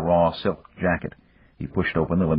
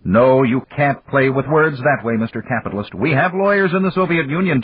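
stern rebuke; 8 semitones higher, 4 dB louder than usual. A narrator's reading. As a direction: scold him, finger raised. Malik rebukes Dan.

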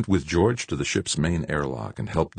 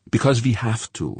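firm insistence, higher and louder; insist, leaning on "Because"; 9 semitones higher, 5 dB louder, faster than usual. A narrator's reading. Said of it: "Fuchs insisted".

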